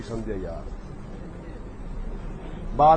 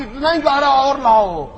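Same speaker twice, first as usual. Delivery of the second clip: slow, higher feeble voice of the dying Mirza; mock weak old man; 6 semitones higher, 4 dB louder, slower than usual. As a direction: drag it out like a frail patient. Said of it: "अब फरमाया कि".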